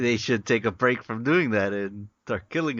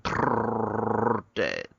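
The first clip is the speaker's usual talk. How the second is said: mock death sound; 3 semitones lower than usual. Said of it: "It said".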